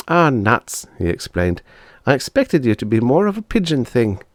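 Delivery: put-on a little boy let down; boy's voice. Bob's lines.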